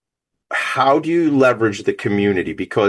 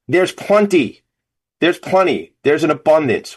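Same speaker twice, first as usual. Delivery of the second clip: pitched high, leaning into the secret; big reveal; 6 semitones higher than usual. Real, not acted. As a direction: deliver it like good news whispered to a crowd. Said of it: "let me let you all in on something".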